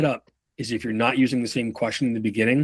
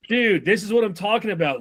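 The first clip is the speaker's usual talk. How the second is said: high pitched again, stressing what; repeated high demo line; 8 semitones higher than usual. Shown as a demonstration. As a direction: say it higher with a jab on what.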